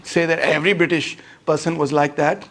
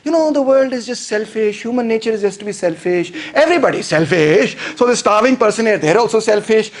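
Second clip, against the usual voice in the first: higher-pitched mock self-righteous argument; self-justifying rant; 4 semitones higher than usual. Rich person excusing ignoring the starving, self-justifying. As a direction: argue your selfishness away, indignantly. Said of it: "then you make this theory".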